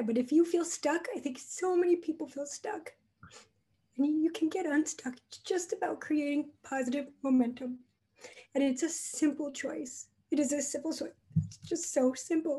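choked up, on the edge of crying. Offering hope to listeners who feel stuck, on the verge of tears. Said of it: "it makes me wanna cry".

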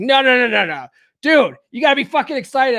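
mock fired-up, loud, pumped-up, rousing, hyped delivery. Retelling getting a friend jazzed up before questions: hyping someone up. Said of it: "I started getting him ja-, like, jazzed up".

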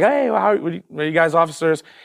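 put-on cheerful, friendly, halting voice. Retelling walking up to the officers, smiling while speaking. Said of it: "I'm smiling".

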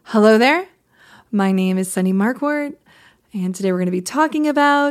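upspeak rising on Marquardt and about. Describing the upswing, mimic how a person introduces themselves: rising upspeak intonation. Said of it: "the upswing takes back everything".

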